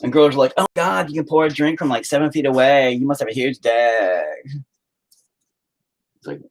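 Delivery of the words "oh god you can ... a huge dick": put-on higher, breathless ditzy club girl; a lightly voiced gushing girl at a club; mock swooning girl. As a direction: gush like an impressed drunk girl. Imitating impressed club girls.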